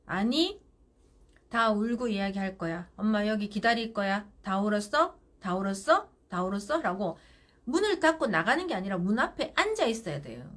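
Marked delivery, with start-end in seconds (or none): 0.0-6.8 parent ferme. Shown as a demonstration. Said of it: "그럼 어떻게 해요?".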